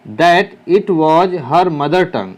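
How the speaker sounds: each word spaced out for copying; teacher reading to students, slowly and clearly; slow dictation. Shown as a demonstration. Teacher dictating to students writing it down, slow and clear.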